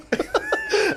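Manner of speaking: shrieking burst of a laugh; real laughing squeal; high squeal of laughter. Real, not acted.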